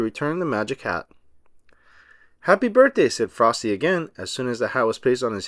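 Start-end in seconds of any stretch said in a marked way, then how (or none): 2.4-3.1 high, bright first words; snowman voice. A narrator's reading. Snowman speaking his first words to the children, high and joyful. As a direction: come alive with a high happy greeting.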